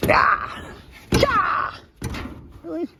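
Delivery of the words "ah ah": effortful cry. Real, not acted. Straining at stuck lid.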